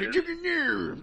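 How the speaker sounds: mock an angry hick; redneck voice. Third echo of chant.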